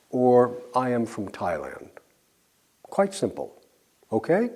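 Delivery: ordinary talk, nothing marked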